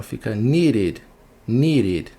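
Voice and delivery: needed com "id" no final; -ed como "id". Shown as a demonstration. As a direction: say needed with a clear final "id" syllable. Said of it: "fica com som de I D". (needed com som de "id" no fim)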